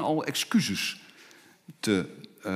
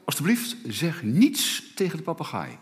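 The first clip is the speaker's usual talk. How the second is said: lightly raised, pleading plea down the phone; young woman pleading; 4 semitones higher than usual. Retold or imitated. Young woman begs the repairman on the phone, pleading. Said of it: "zei de jonge dame door de telefoon".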